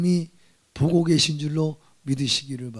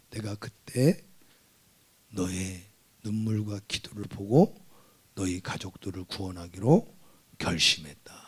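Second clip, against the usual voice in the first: a lightly voiced God, lower and gentle; a hint of a divine voice, lower and hushed; 5 semitones lower than usual. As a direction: speak as God, calm and low. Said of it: "주님이 내 마음에 감동".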